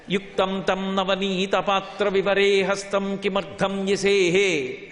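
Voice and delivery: slow, measured Sanskrit verse chant; chanted shloka, drawn out; verse recitation. Acted. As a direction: lay out each syllable of the shloka slowly.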